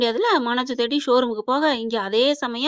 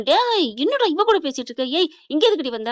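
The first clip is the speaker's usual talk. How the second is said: mild mock yell, pitched higher; retold yelling; 3 semitones higher than usual. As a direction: imitate an angry mother scolding, without full volume. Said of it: "அப்படின்னு கத்த". (லேசாகக் கத்துவது போல நடித்து)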